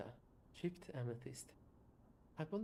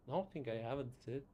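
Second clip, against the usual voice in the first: louder, contemptuous factory boss; scornful industrialist; 3 semitones higher, 4 dB louder than usual. Acted. Factory owner scorning workers asking for wages, loud and scornful. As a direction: sneer at the workers' demands.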